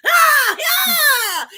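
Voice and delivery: very high, loud monkey war cry; flying monkeys. Retold or imitated. Voicing the flying monkeys answering the witch with a high shrieking whoop. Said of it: "And they're like".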